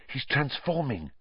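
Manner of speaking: hushed soft voice; whispering. A narrator's reading. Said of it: "Hermione whispered".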